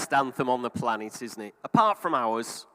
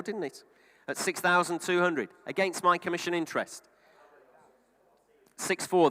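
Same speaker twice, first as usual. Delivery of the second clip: steady auctioneer calling bids; auction bid spotter. Real, not acted. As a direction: keep the auction patter rolling.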